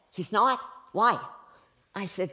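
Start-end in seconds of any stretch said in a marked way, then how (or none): 0.1-1.2 louder, higher mock outrage; indignant disbelief. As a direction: demand it, offended and incredulous. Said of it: "they're mad. And they're going like".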